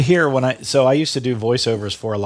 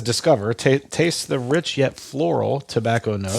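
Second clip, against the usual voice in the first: Morgan Freeman. Acted. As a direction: read it like a film trailer narrator, unhurried. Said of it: "You sound like Morgan Freeman when you read that".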